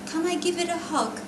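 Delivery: put-on high-pitched little boy asking; child's voice. A narrator's reading. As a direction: ask sweetly in a high child voice. Son's question voiced in story.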